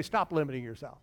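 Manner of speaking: low spoken example. Shown as a demonstration. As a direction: demonstrate it quietly for the congregation. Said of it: "Turn to your neighbor and say".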